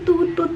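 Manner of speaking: "tut, tut" sung high and level; tut tut tone one. Shown as a demonstration. Teacher showing tone one on the toot. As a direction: hold "tut" high and flat. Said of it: "sama dengan nada tut".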